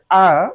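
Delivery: আ said as a long open ah, no r; British non-rhotic ah. Shown as a demonstration. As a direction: drop the r, just আ. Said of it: "আর না বলে আ বলে".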